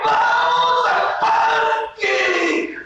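very high, long-drawn singsong cheer; hammed-up squealing delight; acted joy. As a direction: stretch every word out with glee. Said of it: "cuando estás alegre".

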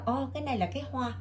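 a hint of a little kid naming the picture; young child's quick soft answer; small child answering. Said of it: "Nó nói là".

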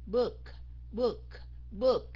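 "book" short with a crisp final K. Shown as a demonstration. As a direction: tighten "book" up, keeping the K audible. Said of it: "rồi mình nói nhanh".

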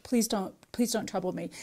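soft, droopy mock plea; exhausted and wounded. Pleading with the caller, softly faking weariness. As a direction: play it weary and hurt to get out of the call. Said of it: "I tried to sound really exhausted, really wounded".

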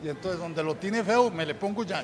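ordinary delivery

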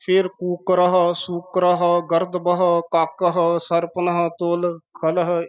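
ਕੂਕਰਹ, ਸੂਕਰਹ, ਖਲਹ ending in "-ha", not "-hai"; mistaken -ah endings. Shown as a demonstration. Teacher showing the faulty reading, words ending in -ha. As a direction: end each word like ਕੂਕਰਹ on an open a-h. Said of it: "ਤੇ ਜੇ ਸਾਹਸ ਵਾਂਗ ਉਚਾਰਨ ਕਰਾਂਗੇ".

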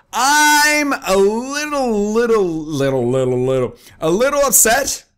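mock upset stammer. Drawn-out comic upset.

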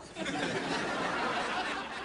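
breathy laugh. Acted. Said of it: "Alex Russo".

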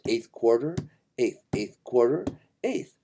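each "quarter" held longer, each "eighth" short; rhythm in note names. Shown as a demonstration. Teacher naming the notes in four four, spoken in rhythm. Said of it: "In four four, it's".

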